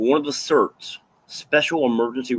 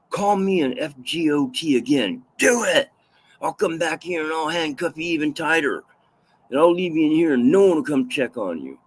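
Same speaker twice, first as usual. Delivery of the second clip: higher, taunting threat from an angry guard; menacing threat; 4 semitones higher than usual. Retold or imitated. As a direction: dare him to say it again, then threaten. Guard threatening inmate in cell.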